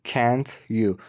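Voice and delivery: "Can't you" with t and y apart; separate T. Shown as a demonstration. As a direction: finish "Can't" before starting "you". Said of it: "آخرش تی و بعدش یو داریم". («Can't you» جدا از هم)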